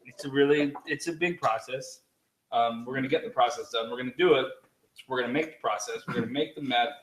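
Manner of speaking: lightly voiced politician's empty bluster; Donald Trump. Co-host dodging the meth question, light Trump imitation. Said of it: "You're just trumping right now".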